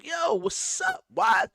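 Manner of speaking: high, loud plea; pleading. Retold or imitated. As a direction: ask it with hurt disbelief. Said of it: "I'm saying".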